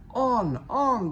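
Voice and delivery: high, loud urging yell; yelling trucks. A narrator's reading. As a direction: roar them on like a rowdy gang. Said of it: "they yelled".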